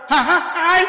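high, loud startled yelp; startled cry. Retold or imitated. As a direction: jump at a sudden touch in the dark. Bà già giật mình hoảng hốt. (tiếng kêu giật mình the thé)

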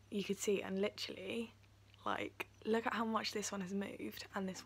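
lip held down by finger; talking while showing teeth. Real, not acted. Seen 0: Finger presses lower lip down against teeth, showing braces, while talking.

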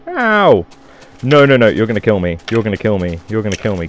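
loud, fast panicked protest. Real, not acted. Gamer panicking as a skeleton attacks him. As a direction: blurt it out under attack.

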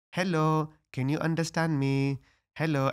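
loud, high, mocking talk-down as if to a foreigner; hammed-up schoolkid taunting the new girl; mocking bully. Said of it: "they would be like".

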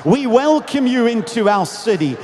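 punchy, loud cries of welcome; crowd's shout. Retold or imitated. Crowd welcomes Jesus into their city, calling out. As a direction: hail the arriving king like a crowd. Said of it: "Others would shout".

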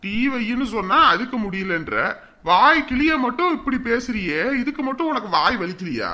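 loud, sharp telling-off of his wife; irritated husband scolding. Acted. Husband snaps at wife who won't make tea, loud and irritated. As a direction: scold her for talking back.

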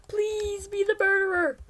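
hushed, breathless plea; pleading whisper. Real, not acted. Gamer whispering a plea to get the murderer role. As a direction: whisper it like a wish.

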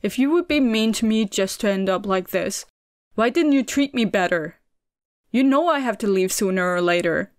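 loud, tearful outburst; exploding outburst. A narrator's reading. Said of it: "exploded all that he'd been pushing down".

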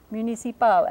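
French "Municipal" with the accent on the final pal; last-syllable stress. Shown as a demonstration. Lecturer showing students French word accent, stressed on the end. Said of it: "accent on the last syllable".

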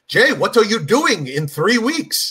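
slow, drawn-out question; retold leading question, stretched out; Steve Bix. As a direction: lightly imitate a booker setting a trap. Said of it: "he'd be like".

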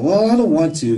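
high, loud bratty refusal; five-year-old's attitude. Retold or imitated. Five-year-old daughter refusing Daddy's mall trip, with attitude. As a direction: imitate a kid refusing with attitude. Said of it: "Give me the attitude of a five-year-old kid".

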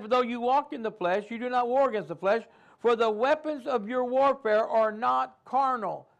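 preacher quoting scripture; scripture reading. Acted. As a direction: read the verse with weight.

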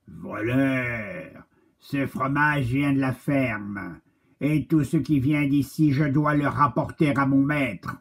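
the farm dog orders the crow. Acted. Guard dog scolds the crow.

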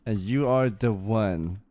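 woo her like a storybook knight; romantic knight. Acted. Role-played flirting with NPC.

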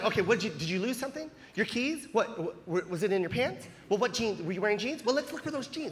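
soft, patient questioning; helpful parent. Retold or imitated. Normal parent helping a kid find keys, soft patient voice. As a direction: gently imitate a helping parent. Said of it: "Normal parents help".

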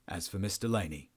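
officer's line slipping into the captive's voice; lightly voiced captive, not the officer; Adrian's voice by mistake. Real, not acted. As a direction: let the wrong character's voice creep in. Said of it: "now I'm Adrian as well as".

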